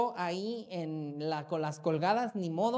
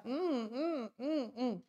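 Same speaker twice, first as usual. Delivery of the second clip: imitated moaning; 3 semitones higher, 6 dB quieter, much slower than usual. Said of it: "nada más se escucha".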